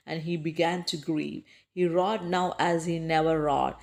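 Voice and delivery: slow, measured stanza with pauses at line ends; rhythmic verse recitation. Shown as a demonstration. Teacher recites another stanza in the same rhythm, measured recitation. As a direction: recite it slowly in a steady rocking rhythm. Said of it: "reciting another stanza from the poem with the same rhythm".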